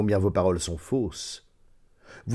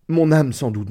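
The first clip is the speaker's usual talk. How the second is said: crié plus haut et plus fort; lance-le comme un cri d'effroi; 5 semitones higher, 4 dB louder than usual. Acted. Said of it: "m'écriai-je". (cri effrayé)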